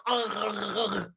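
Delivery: muffled groans through a mouthful of gauze after a tooth pull; mouth full groans. Retold or imitated. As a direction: grunt through a stuffed mouth. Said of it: "my mouth was full of everything".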